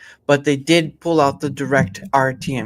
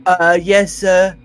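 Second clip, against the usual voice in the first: yes sir soldier; 4 semitones higher, 9 dB louder, slower than usual. Pretend. Mock military reply to GM.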